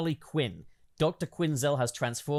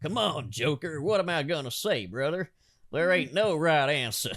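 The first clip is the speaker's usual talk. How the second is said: put-on Southern American accent; 3 semitones higher than usual. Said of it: "We're gonna do Southern American accents".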